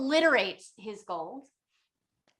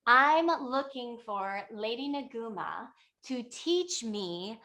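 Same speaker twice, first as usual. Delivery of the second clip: retold call to the sky, only lightly raised; mild mock scream upward. Traveler begs Lady Naguma above for teaching, mock calling up. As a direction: call up to someone overhead, half-hearted shout. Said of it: "So he screams up".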